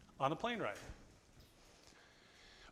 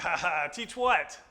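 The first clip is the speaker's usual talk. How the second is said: mocking laugh; 6 dB louder, slower than usual. Businessman mocking laugh, slow.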